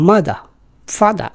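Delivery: mother said as "mada", no R sound; British non-rhotic mother, father; no final R. Shown as a demonstration. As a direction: drop the R at the end of mother and father. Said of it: "not to utter your last R".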